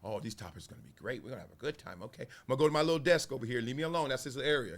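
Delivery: soft, friendly Skip Bayless impression; sweet and chill, greeting a guest; imitating Skip. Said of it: "He be so nice and chill".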